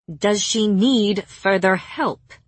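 slow words pushed through gritted teeth. Acted. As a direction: speak with clenched jaw, slowly. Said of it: "through her teeth".

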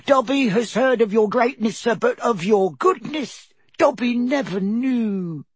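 high squeaky elf voice, humble and anxious; a trembling servant elf pleading; house elf Dobby. A narrator's reading. House elf Dobby explains his lot to Harry, high squeaky elf voice.

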